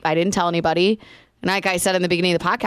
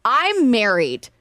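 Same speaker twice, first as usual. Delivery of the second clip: firm retort; 3 semitones higher, much slower than usual. Retold or imitated. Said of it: "I took my wedding ring and I went".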